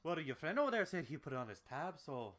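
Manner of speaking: brisk, lightly Scottish-Irish bartender; Scottish-Irish accent. Acted. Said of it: "Scottish-Irish accent".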